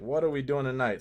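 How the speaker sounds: normal talking voice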